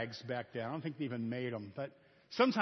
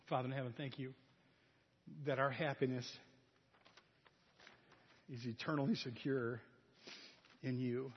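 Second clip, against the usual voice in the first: softer, reverent prayer voice; closing prayer; 3 semitones lower, 5 dB quieter than usual. Acted. Pastor leading the congregation in a closing prayer, softer and reverent. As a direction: pray gently to close the sermon.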